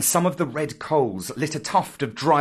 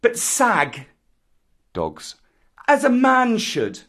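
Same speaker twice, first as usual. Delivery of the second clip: put-on high, loud, proud jungle boy; defiant Mowgli; 8 semitones higher, 5 dB louder than usual. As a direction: scornfully lord it over the pack. Voices Mowgli defying the pack.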